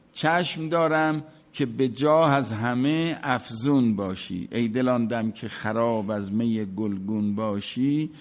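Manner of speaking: measured chanting of Hafez; poem recitation. Acted. Teacher quotes Hafez to the class, in measured recitation.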